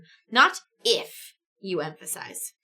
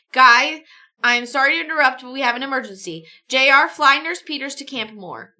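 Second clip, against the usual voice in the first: urgent nurse; 2 semitones higher, 7 dB louder than usual. Acted. Nurse urges emergency flight.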